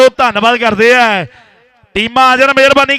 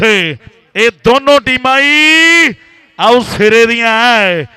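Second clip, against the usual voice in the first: rhythmic commentary. Acted. Rhyming kabaddi commentary.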